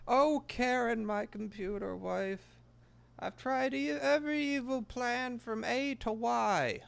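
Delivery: high, slow, scheming cartoon voice; tiny villain voice, very high and slow; Plankton impression. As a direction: croon to the computer wife, then plot. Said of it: "I can't do a Plankton impression".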